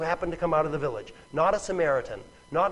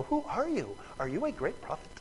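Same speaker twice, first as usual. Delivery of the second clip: soft, innocent questioning; polite and innocuous; 2 semitones higher, 8 dB quieter than usual. Acted. Woman innocently questioning the stranger, soft and polite. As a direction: ask gently, keeping it harmless. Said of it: "it sounds so polite and innocuous".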